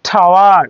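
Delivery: টাওয়ার with T like ঠ; aspirated T. Shown as a demonstration. Teacher modelling tower for students, aspirated টাওয়ার. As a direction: puff out the T of টাওয়ার. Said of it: "টাওয়ার উচ্চারণ হবে".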